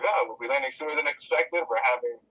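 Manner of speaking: lightly voiced pilot on the intercom; hesitant mock pilot announcement, stalling before the bad news; airline pilot announcement. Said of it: "the pilot's like".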